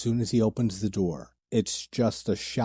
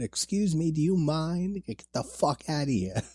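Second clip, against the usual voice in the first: higher, indignant mock woman; 7 semitones higher than usual. Reviewer imitating the woman on the toilet, higher and indignant. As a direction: play the offended woman caught on the toilet. Mimicking Juliette Lewis on toilet.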